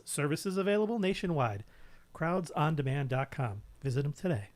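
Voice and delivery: sing-song sponsor plug; sponsor read. Pretend. Reading the new sponsor's ad.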